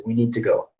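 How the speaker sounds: "we need to go" with "to" barely pronounced; schwa reduction. Shown as a demonstration. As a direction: reduce "to" to a light "tuh". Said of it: "to barely pronounce that".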